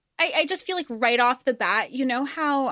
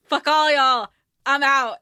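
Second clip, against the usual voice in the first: defiant kiss-off; 3 semitones higher, 5 dB louder than usual. Retold or imitated. Acting out the character's defiant exit.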